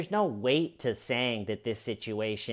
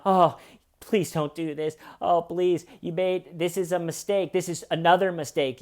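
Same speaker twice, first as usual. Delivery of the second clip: higher-pitched imitation of begging; mock pleading; 5 semitones higher than usual. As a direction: plead mildly, as if reporting someone else's begging. Harvey pleads with arresting agents.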